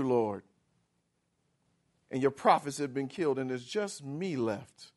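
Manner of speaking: low, soft, whiny excuse; fearful Elijah justifying his flight, low; whiny self-pity. Acted. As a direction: plead pitifully for being spared. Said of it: "So he says".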